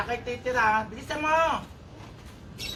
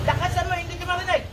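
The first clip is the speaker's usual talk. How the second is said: higher, insistent demand; commanding; 6 semitones higher, 4 dB louder than usual. Acted. Healer tells the possessing spirit to speak louder, commanding. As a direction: order it to speak up.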